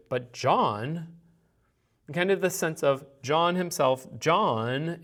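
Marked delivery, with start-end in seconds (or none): 0.1-1.2 "John" stressed with a swooping pitch; leaning on John. Shown as a demonstration. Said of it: "you kind of could lean to it". 4.2-5.0 "John" stretched and leaned on; emphasis on John. Shown as a demonstration.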